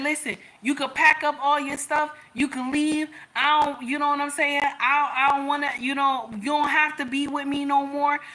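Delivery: proud, challenging tone; mock tough-girl speech; defiant. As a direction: tell him off before he can speak. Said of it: "my king looked at me".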